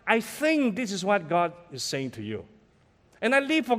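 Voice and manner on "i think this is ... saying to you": slow, humble, tentative offering; gentle suggestion. Shown as a demonstration. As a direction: modest everyday prophetic word. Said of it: "I use words like".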